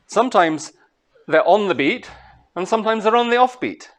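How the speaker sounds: rhythmic stress on on and off; on beat off beat. Shown as a demonstration. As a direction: punch on, then snap to off. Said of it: "this kind of thing going on".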